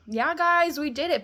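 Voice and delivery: rally the crowd in celebration; mock cheer.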